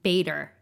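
"Bader" said with BAY at the start; correct pronunciation. Shown as a demonstration. Showing co-host the name, "Bader" as BAY-der. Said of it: "is how to pronounce it".

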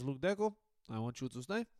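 lightly voiced Portuguese accent, badly done. A hint of Mourinho's Portuguese accent pleading with Deco. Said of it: "That was a terrible accent again".

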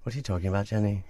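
playful Irish lilt; lightly put-on Irish accent. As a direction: feign innocence in an Irish accent. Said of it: "Keep going with your Irish accent".

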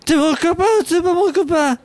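put-on town drunk. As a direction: ham up a bad drunk act. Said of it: "faites toujours aussi mal l'homme bourré".

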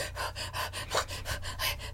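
soft mock gasp for air; half-hearted gulp for breath; retold gasp. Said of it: "she's, like, gasping for air".

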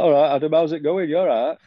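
imitating a broad northern English greeting; mock northern English accent, cheery. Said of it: "Rob's massively northern".

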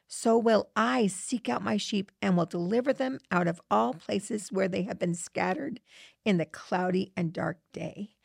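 reading scripture aloud in a measured, reverent way; quoting Ezekiel to a friend in a reverent reading voice. Acted. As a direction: read it like a passage from the pulpit.

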